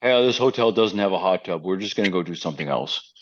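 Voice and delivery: low-key mock kid announcement; imitating the kids. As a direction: do an unbothered kid, pitched a bit down. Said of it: "That was an extremely accurate impression".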